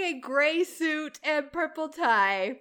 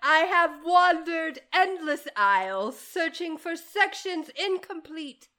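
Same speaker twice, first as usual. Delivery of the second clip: put-on British accent. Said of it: "How's my accent?".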